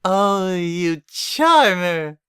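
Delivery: giggled. Acted. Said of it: "Rarity giggled".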